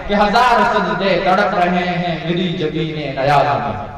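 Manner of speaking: melodic Urdu poetry recital, drawn out; ghazal recitation. Acted. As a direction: chant each verse with lilting tarannum. Recites Iqbal ghazal at mushaira.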